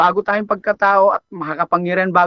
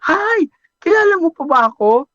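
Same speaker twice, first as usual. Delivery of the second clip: put-on high, loud and fast girl's voice; girlish greeting; 9 semitones higher, 3 dB louder than usual. Returning customer greeting her barber, high and girlish. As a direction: burst in with a chirpy hello.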